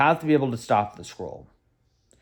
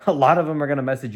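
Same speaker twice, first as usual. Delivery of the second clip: quick laughing repeat, a bit louder; 3 semitones higher, 3 dB louder, much faster than usual. Shown as a demonstration.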